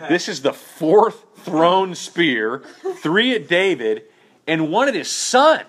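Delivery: slow, laughing through the words. Real, not acted. Pastor laughing to the class about Saul's throws. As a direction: chuckle out the count of spears.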